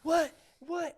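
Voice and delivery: high-pitched imitation of an indignant customer; hammed-up offended repeats; mock outrage. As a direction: squawk each what in high disbelief.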